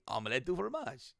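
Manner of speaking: mildly cheerful acted line; happy. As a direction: say it with a touch of happiness. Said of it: "He's happy".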